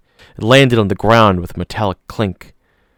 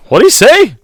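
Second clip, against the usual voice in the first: much higher, louder confused question; puzzled Gennaro; 9 dB louder than usual. A narrator's reading. Gennaro confused by the radio, high puzzled question. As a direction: ask it baffled, pitched up.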